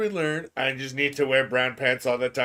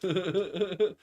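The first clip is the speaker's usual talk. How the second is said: catlike laugh; 6 semitones higher than usual. Real, not acted. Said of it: "I sounded a lot like a cat".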